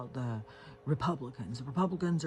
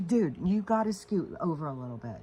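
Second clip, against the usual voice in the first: scolding the dog; 5 semitones higher, 5 dB louder than usual. Real, not acted. Telling the dog to move.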